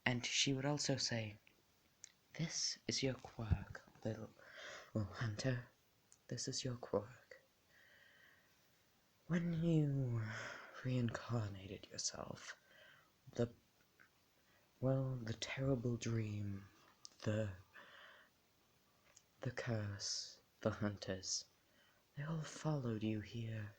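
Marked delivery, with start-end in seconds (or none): 2.4-7.4 lightly voiced doll, soft and hushed; made-up doll voice. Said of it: "make up a different voice". 9.3-23.7 a hint of a soft-spoken doll; made-up doll voice. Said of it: "make up a different voice".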